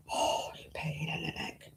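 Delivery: a real whimper of despair over the ruined wool; near tears. Real, not acted. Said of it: "I'm gonna cry in a minute".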